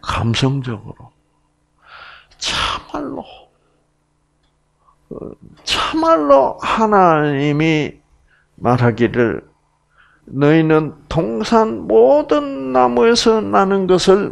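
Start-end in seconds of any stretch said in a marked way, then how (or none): 2.4-14.3 Gyeongsang dialect serpent. Acted. Serpent questioning the woman, sly high Gyeongsang accent. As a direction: tempt slyly in a Gyeongsang accent. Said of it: "경상도 사투리로 제가 각색을 할게요".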